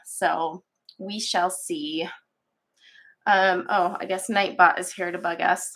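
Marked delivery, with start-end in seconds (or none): 0.0-2.1 congested, slow and half-whispered; stuffy nose. Real, not acted. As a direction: talk through a blocked stuffy nose. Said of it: "I am still stuffy and, uh, congested too in my voice".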